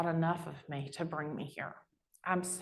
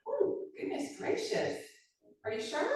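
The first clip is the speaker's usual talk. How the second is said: fake-sweet southern lady; 10 semitones higher than usual. Player questioning a line call in sugary high voice. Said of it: "I'm like".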